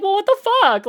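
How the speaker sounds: high, loud exasperated cry; mock outraged yell. Streamer to chat, mock outraged yell. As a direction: blurt it out in disbelief.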